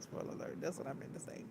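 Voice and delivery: spoiler alert whispered under the breath; whispered aside. Real, not acted. Repeats spoiler alert, then whispers.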